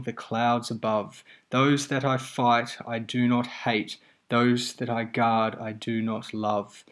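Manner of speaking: measured verse reading, slow on the parallel lines; reciting the airman's calm lines to students; poem recitation. Acted. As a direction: let the balanced lines land evenly.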